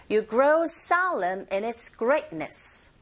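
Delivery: slow model line, stretching "grow solemn" and "greatness"; content words stressed. Shown as a demonstration. Teacher leads repeat-after-me, slow with "grow solemn" and "greatness" stressed. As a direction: lean on "grow solemn", pass lightly over "in its". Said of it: "머물지 않고 빨리 지나가면서".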